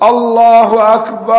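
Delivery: الله أكبر chanted slowly with the ba of أكبر stretched long, high; wrong elongated Akbar. Shown as a demonstration. Teacher demonstrating a wrong adhan to students, slow chanted call. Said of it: "زي إيه بقى".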